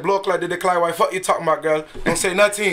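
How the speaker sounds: put-on Jamaican patois chat-up; quick mock Jamaican banter; Jamaican accent. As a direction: bluff her with a Jamaican accent. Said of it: "You Jamaican?".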